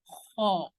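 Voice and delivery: خو rasped from the throat, heavy, with rounded lips; scratchy kh. Shown as a demonstration. Teacher showing the heavy خو to students. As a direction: scrape خو from the back of the throat. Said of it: "گلے میں اگر ہمارے خراش ہو".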